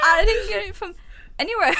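laughing, hammed-up Aussie impression; Australian accent attempt. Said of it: "Not a clue how to do Australian accents".

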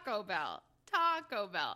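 TACO Bell, first syllable leaned on, Bell dropped; imitated wrong stress. Mimicking co-host after laughing, stress on Taco. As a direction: lean hard on TA in Taco, let Bell fall. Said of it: "but you're saying Taco Bell".

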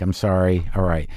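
low, understated retold apology; reluctant apology. Apologizing to the comic after the set, reluctant but genuine. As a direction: give in grudgingly but mean it, pitch dropped. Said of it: "a very reluctant but genuine apology".

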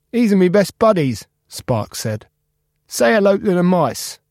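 high, upbeat reassuring friend; Spark cheerful. Acted. Spark cheering up Cap about the recycling machine. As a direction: promise him a fresh start.

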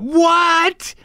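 sudden high squeak of surprise; imitating her stunned what; surprised gasp. Fiancée at the pancake ring, high surprised squeak.

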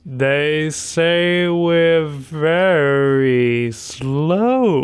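drawn-out suggestive pause; slow seductive line. Acted. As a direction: deliver it slow and smooth. Smooth innuendo delivery.

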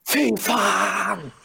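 high, exasperated mock shout; Dag Eilev. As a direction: imitate a fed-up yell of swearing. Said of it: "og så sier Dag Eilev". (etterapet, oppgitt brøl)

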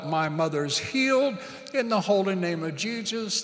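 earnest praying voice, pressing on; a pastor praying over the congregation; fervent prayer. Acted. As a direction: pray it out with conviction. Praying aloud over the church.

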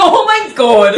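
real laugh, high and loud. Real, not acted. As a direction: burst out laughing through the words. Laughing at sister's dark joke.

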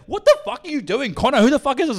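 high, loud mock scolding; imitating an aunt's shrill-pitched telling-off; outraged aunt. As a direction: confront him like a scandalised aunt. Voices outraged aunt confronting him.

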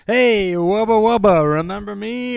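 loud, high TV-personality catchphrase; playing it up. Co-host imagining the star reminding viewers, hammed-up greeting. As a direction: call it out big and high. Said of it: "is she really playing it up".

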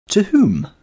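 Basil pressing Henry for the bride's name; startled question. Acted. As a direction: snap the question out in shock. Basil demanding, shocked.

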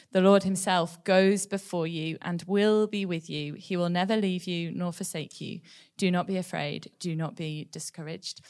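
slow, measured Bible reading; scripture reading. Acted. Reading Deuteronomy to the church, slow and measured. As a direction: read the verse steadily to the church. Reads the key verse.

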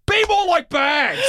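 high, slow mock scolding; imitating boss. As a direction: drag it out like a preachy boss. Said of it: "He's like".

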